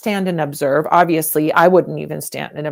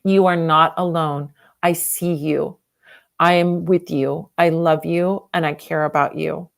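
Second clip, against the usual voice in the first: heartfelt, even-toned reassurance; getting emotional; 2 semitones lower than usual. Real, not acted. Telling a bullied person they aren't alone, getting emotional. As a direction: reassure them sincerely, one measured phrase at a time. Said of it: "I'm getting super emotional".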